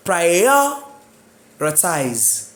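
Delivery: "Prioritize" very slowly, split after prior; stress on first syllable. Shown as a demonstration. Teacher applies the suffix rule, "Prioritize" stressed on pri. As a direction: draw out PRI in "Prioritize", pause before the ending. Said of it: "the stress remain".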